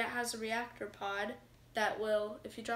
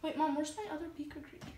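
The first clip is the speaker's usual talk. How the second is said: higher, quick call from a distance; yelling across the room; 5 semitones higher, 5 dB quieter, faster than usual. Real, not acted. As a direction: call out to mom in another room. Child calling to mom from afar.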